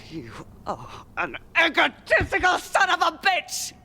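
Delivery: high, strained outburst; furious insult. Acted. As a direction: hurl the insult, voice climbing to the end. Insulting partner in a quarrel.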